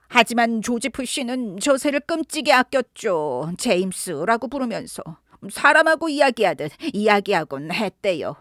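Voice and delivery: a lightly voiced old woman complaining about the parrot; annoyed old housekeeper. (시끄러운 앵무새를 투덜대며 불평하는 늙은 여자 목소리)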